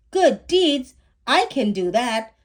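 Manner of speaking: put-on bright-eyed boy seizing a chance; eager excitement. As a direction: jump at the idea of good deeds. Zach eager to do good deeds.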